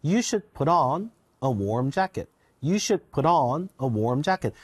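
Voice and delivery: slow model sentence with "on" stressed after "put". Shown as a demonstration. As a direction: read it slowly, leaning on "on". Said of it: "힘이 뒤에 들어간다 했죠".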